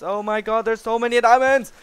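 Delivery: high, loud burst of real excitement; thrilled about diamonds. Real, not acted. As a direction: shout it like you just struck it rich. Finds lots of diamonds.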